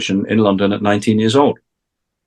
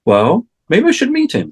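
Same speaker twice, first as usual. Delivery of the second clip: imitating a musician; 10 semitones higher than usual. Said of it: "And he went".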